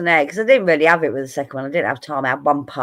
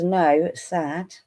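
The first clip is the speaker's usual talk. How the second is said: read-out comment; 2 semitones higher, 4 dB quieter, much slower than usual. Retold or imitated. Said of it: "Barakai says".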